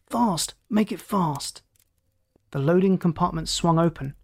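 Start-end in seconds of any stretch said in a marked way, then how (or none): 0.1-1.6 high, urgent command; restrained shout with the pitch up; roared order. A narrator's reading. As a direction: urge the crew on. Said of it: "roared Scott".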